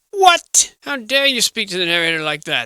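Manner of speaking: a sudden high, loud What, then an offended huff; mock outrage. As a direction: play the insulted narrator for laughs. Outraged reply to the screen.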